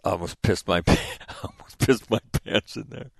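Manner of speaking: half-laughing, shaken and relieved; retelling the commanding officer's nervous laugh; laughing relief. Retold or imitated. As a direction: laugh it out like you barely held it together. Commanding officer relieved after the meeting.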